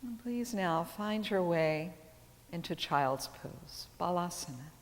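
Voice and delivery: calm teacher cueing movement with the breath; unhurried cues, pauses left for each breath; guided yoga practice. Acted.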